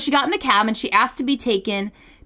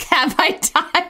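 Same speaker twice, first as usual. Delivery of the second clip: ghost voice; 5 semitones higher, slower than usual. Pretend. Ghost line replayed.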